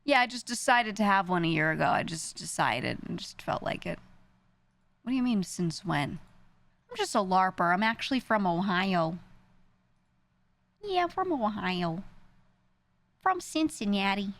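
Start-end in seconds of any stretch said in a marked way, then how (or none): none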